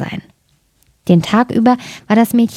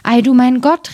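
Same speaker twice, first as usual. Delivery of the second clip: amazed cry; 4 semitones higher than usual. Acted. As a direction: marvel aloud, drawing it out. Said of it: "riefen sie".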